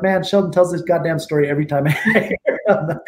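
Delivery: imitating a fed-up listener, laughing through it; laughing mock complaint; mock exasperated listener. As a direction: grumble it like someone sick of the story, breaking into a laugh. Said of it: "they're like".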